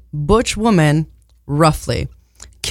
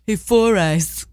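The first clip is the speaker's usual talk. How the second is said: laughing tease; 3 semitones higher, slower than usual. Pretend. Teasing joke while laughing.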